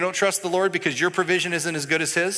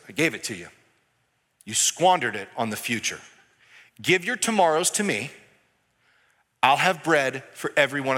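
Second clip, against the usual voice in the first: voice of God; 5 semitones lower than usual. Retold or imitated. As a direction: answer gently, settling a worried child. God answers the complaining believer.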